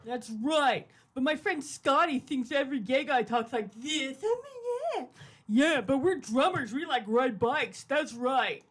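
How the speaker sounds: lightly voiced macho guy, drawn out in places; mocking impression of Zig. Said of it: "Should I do my impression of Zig?".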